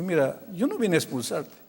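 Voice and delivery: soft, calming pastor's voice; gentle reassurance. Retold or imitated. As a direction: drop your volume and reassure him. Pastor calma al muchacho rebelde. (tranquilizador, en voz baja)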